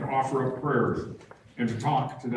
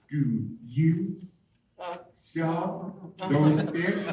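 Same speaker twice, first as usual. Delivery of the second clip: tourist; 4 semitones higher, much slower than usual. Retold or imitated. Mimics timid tourists addressing Indians.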